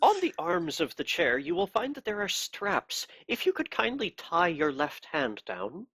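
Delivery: a cold, pious interrogator; cold pious accusing. Acted. Inquisitor orders straps.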